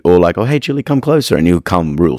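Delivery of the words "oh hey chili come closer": much higher sing-song coax; coaxing the dog. Retold or imitated. Trainer coaxing nervous Chili to come closer, high coaxing voice. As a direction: sweet-talk a wary dog closer.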